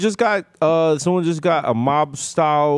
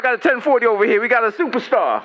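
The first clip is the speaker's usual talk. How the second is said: higher, faster fanboy cop; excited cop; 6 semitones higher than usual. Pretend. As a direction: gush like a fan cop. Cops playing starstruck.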